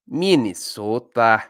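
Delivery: slow, drawn-out Minnesotan "Minnesota"; Minnesotan accent. Shown as a demonstration. Podcast host ranking states, trying a Minnesotan accent. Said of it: "That was a good accent".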